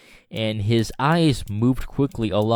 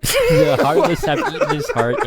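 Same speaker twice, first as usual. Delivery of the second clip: laughing; 5 dB louder than usual. Real, not acted. Reader cracking up mid-line.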